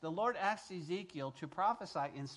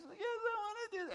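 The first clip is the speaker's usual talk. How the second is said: eager yes. Retold or imitated. New believer answering the evangelist.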